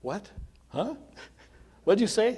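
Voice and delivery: high, loud imitation of a hard-of-hearing old woman, chuckling; hard-of-hearing lady. Pastor imitating a confused hospital patient, loud and high. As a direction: mimic her asking again and again, loud and high. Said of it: "she'd always have to say".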